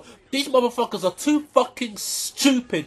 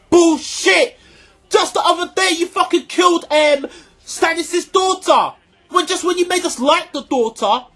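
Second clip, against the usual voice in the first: raised ranting shout; angry shouting; 3 semitones higher than usual. Real, not acted. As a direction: yell at the showrunners in real anger. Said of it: "making me hurt my fucking voice shouting".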